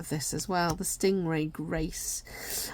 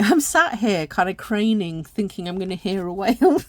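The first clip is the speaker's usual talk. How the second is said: laughing; 6 dB louder than usual. Real, not acted. Laughing at herself.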